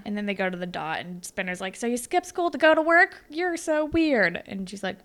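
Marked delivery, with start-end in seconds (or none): 1.8-4.4 teasing Spinner. Retold or imitated. Spinner ribbing Holly J at the Dot, mock-baffled. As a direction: tease her for skipping school.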